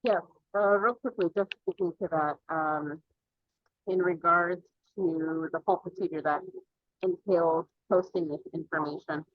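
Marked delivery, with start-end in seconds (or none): none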